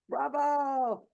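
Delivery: high, loud, laughing cheer; laughing bravo. Real, not acted. Speaker cheering herself after the emotional story, laughing. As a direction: applaud yourself through a laugh. Praising her own emotional delivery.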